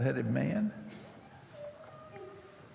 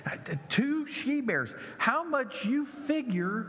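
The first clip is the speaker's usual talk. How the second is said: teacher's question; 7 semitones higher than usual. Retold or imitated. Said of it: "Bible class teacher who was telling the story".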